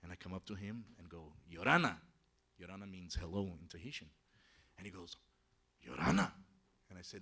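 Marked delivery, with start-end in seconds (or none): 1.5-2.0 hello called out to a sleeper; louder, friendly greeting to wake someone. Retold or imitated. Narrator greets a sleeping man. 5.9-6.3 low, loud sleeper's reply with a rise; deep-voiced greeting back, rising at the end; groggy reply. Woken sleeper returns the greeting.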